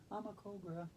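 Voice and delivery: breathy snake hiss of a whisper; whispered cobra hiss, mock menacing. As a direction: hiss it like a cobra, barely voiced. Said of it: "cause I am a cobra".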